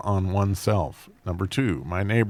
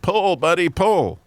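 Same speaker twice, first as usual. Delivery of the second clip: nonchalant; 9 semitones higher, 4 dB louder, slower than usual. Acted. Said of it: "the farmer nonchalantly said".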